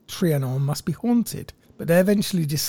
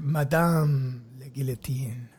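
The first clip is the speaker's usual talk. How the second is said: Madame la Guillotine whispered in a French accent; 3 semitones lower, 4 dB quieter, slower than usual. Shown as a demonstration. Co-host savours the French name in a French-accented whisper. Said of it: "It is very Frenchy".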